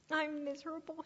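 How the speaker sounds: mildly acted misery; miserable cry. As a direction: complain it high and plaintive. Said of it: "he cried".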